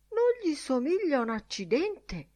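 put-on high-pitched protesting drunk; punchline voiced as a drunk's protest; indignant drunk. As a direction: play the drunk scoffing at the statue. Drunk's punchline in custodian's anecdote.

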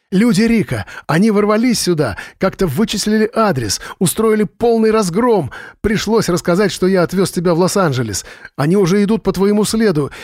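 высоко, в панике, голос срывается; предупреждает друга в ужасе; дрожащий срывающийся голос. A narrator's reading. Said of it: "Голос Джо дрожал и срывался". (дрожащий, срывающийся голос)

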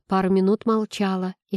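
plain reading voice

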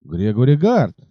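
a mild cry of recognition; understated surprise at the name; astonished exclamation. Acted. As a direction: rider recognising his old servant, mildly astonished. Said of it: "изумлённое восклицание".

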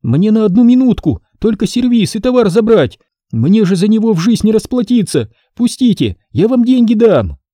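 high, pleading market woman; pleading trader. Acted. Trader begs soldiers to let her back in, high. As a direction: beg them in God's name.

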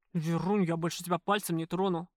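a touch of tenderness from a tough man; understated warm reassurance; unusually warm. A narrator's reading. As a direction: promise her gently but firmly. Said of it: "зазвучали непривычно тёплые нотки".

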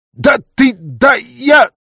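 very high, loud sputtering; splutter, too outraged to finish; choking with rage. A narrator's reading. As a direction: councillor choking on the trader's insolence. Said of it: "захлебнулся от наглости".

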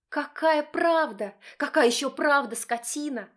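high, loud hysterical wife yell; hysterical shriek. Acted. Wife shrieking at husband, high and hysterical. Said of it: "Истерично орёт она, срываясь на визг".

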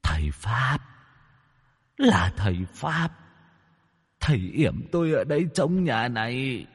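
soft, eerie tearful confession; a beaten ghost tearfully names its master; ghost weeping. Acted. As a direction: sob it out quietly. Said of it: "mếu máo khóc".

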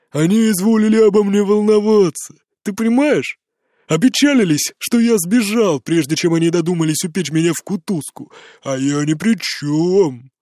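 put-on calmer drunk sarcasm. A narrator's reading. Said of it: "более спокойно".

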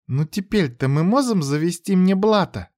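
put-on little girl half-whispering; whispering child. A narrator's reading. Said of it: "прошептала она".

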